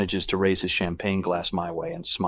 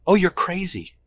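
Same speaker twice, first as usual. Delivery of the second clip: high dismissive woman's voice; 11 semitones higher, 6 dB louder than usual. Acted. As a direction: wave it off, much higher. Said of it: "she waves me off".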